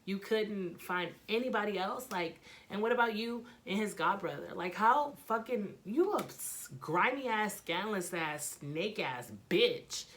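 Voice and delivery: indignant retold telling-off, pitch jumping up; acting out an outraged confrontation; heated words. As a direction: lay into a rival, stretching out the final insult. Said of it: "we had words".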